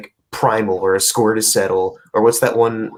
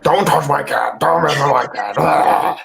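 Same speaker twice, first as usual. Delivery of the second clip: raised, slightly higher mock yell over a pet cat; mock Nick Cage outburst; 4 semitones higher, 4 dB louder, slower than usual. Joking about the trailer to cohosts, a hammed-up movie-hero shout. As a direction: ham up a movie hero guarding his cat, a little louder. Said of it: "Like a white jaguar that's like".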